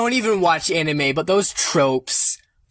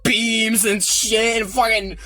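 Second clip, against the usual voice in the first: excited rambling; 4 semitones higher than usual. Real, not acted. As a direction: gush about the epic fight. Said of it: "rambling with excitement".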